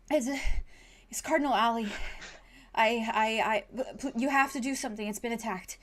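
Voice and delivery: stammering and rushed, out of breath; desperate boy. Acted. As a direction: blurt it out in a panic. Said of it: "desperation on his face".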